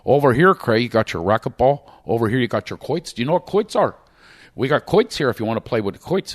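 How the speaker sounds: lightly put-on Shamokin tour guide accent. Local guide showing the comedian round the Poconos, Shamokin accent. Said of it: "with that Shamokin Cole accent".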